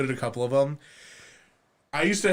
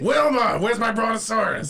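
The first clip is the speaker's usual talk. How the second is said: gravelly cartoon holler, high and loud; loud, hammed-up gravelly impression; Fred Flintstone; 7 semitones higher, 4 dB louder than usual. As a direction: bellow for your wife like a cartoon caveman. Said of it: "it's more gravelly than that".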